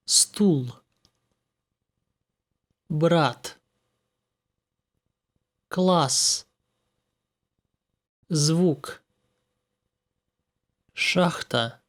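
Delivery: Russian words with every consonant said hard; teacher models hard consonants in Стул, Брат, Класс, Звук, Шахта. Shown as a demonstration. A Russian teacher demonstrating hard consonants to learners. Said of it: "Consonants can be either hard or soft".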